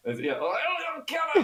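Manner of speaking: high, shouted mock Kerry accent; over-the-top Kerry accent. Shown as a demonstration. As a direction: shout it in a squawking Kerry lilt. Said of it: "uh, Kerry accent".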